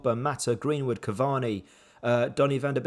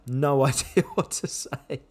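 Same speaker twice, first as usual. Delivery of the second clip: slow, laughing through the words; a rueful laugh; slower than usual. Real, not acted. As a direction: chuckle in helpless disbelief. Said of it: "I'm laughing".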